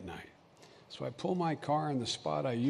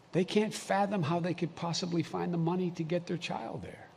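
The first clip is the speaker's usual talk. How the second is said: ordinary talk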